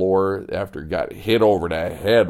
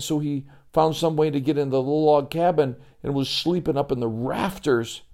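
lightly voiced scared boy, higher; a worried kid whispering about a snake; Joey, worried; 6 semitones higher than usual.

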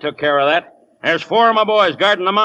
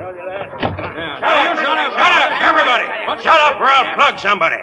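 yelled threat; 8 semitones higher than usual. Acted. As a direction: silence the whole room with a threat. Chief silences the crowd.

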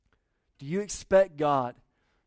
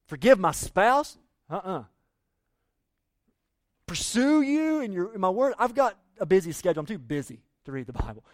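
reluctant excuses; 4 dB louder than usual. Retold or imitated. Mock reluctant believer voiced.

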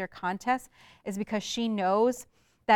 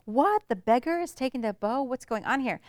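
mock outrage; 4 semitones higher than usual. Suitor shocked beggar takes bow.

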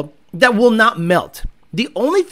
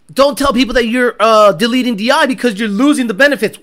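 mock German accent; 3 semitones higher, 4 dB louder than usual. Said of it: "like, sound violent".

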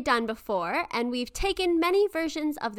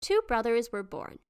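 grave ancient myth telling. A narrator's reading. Reads the legend aloud.

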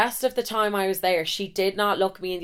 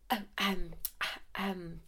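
very soft, halting imitation of an embarrassed nurse; awkward hesitation; 13 dB quieter, slower than usual. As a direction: hesitate under your breath, not knowing where to look. Awkward nurse interrupts her undressing.

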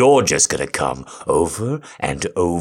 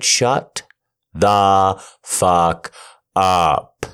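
harsh command; 3 semitones higher, 5 dB louder, much slower than usual. Acted. Dominant command in roleplay.

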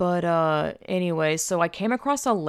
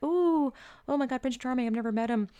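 high, girlish swoon, lightly mocking; 7 semitones higher than usual. Storyteller mimics her infatuated younger self, mock swooning. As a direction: coo it high like a smitten teen.

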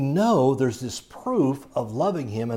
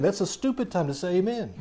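laughing; 6 semitones higher, faster than usual. Real, not acted. Laughs at his own joke.

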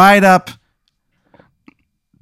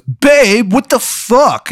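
high, squeaky mock boyfriend yelp; a much higher, startled boyfriend; 12 semitones higher, much slower than usual. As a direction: play him caught off guard, much higher. Boyfriend voiced caught on toilet.

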